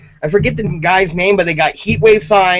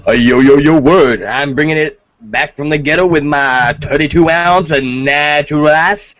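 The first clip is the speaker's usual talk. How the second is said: mock ghetto persona; 4 semitones lower than usual. Cohost asked what she's drinking, answers in a hammed-up low gangsta voice. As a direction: play a hammed-up street tough bragging. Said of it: "I'm not trying to be stereotypical".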